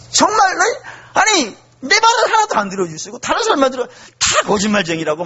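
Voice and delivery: 다 거짓말쟁이라고 snapped out in mock anger; half-acted angry retort; mild retold outburst. The poet lashing out at the people, mild mock anger. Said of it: "막 화가 나가지고 막 그렇게 쏘아붙였단".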